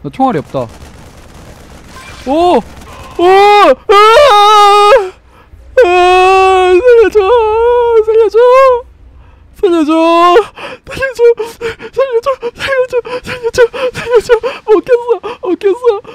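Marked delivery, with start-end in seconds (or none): 2.3-2.6 startled. Real, not acted. Sudden attack in horror game. 3.3-16.0 shrill terrified cries for help; panicked screaming. Real, not acted. Chased by monster, screaming.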